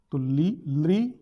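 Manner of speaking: drawn-out teaching of ली and लृ; demonstrating the letters ली and लृ; sounds said aloud. Shown as a demonstration. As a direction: sound out ली, लृ slowly for the class. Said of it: "तवर्ग, ल और स".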